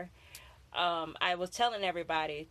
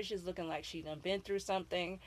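lightly Southern, folksy Florida twang; Florida accent; 6 dB quieter than usual. Retold or imitated. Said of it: "That's a Florida accent".

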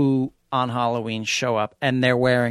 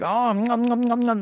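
fake eating noises; 11 semitones higher than usual. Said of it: "we'd be like".

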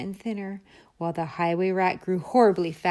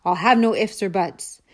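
snarled; 5 dB louder than usual. Acted. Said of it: "snatched the sack and snarled".

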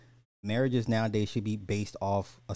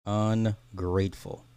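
slow, drawn-out disgust; slow disgusted drawl; 4 dB louder, slower than usual. Acted. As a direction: drag it out in disgust. Slow final take.

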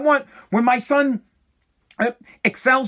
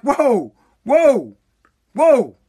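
retold "hold on", louder each time; emphatic interruption; 3 semitones higher, 5 dB louder, much slower than usual. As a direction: cut in firmly, acting out an argument. Acted halting of son's complaint.

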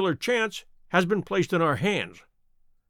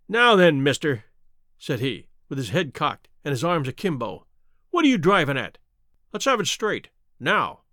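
angry outburst; 2 semitones lower than usual. Acted. Salesman bursting out angrily at Holmes's question. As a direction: bristle and bark back at the stranger. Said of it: "provoked a burst of anger from the salesman".

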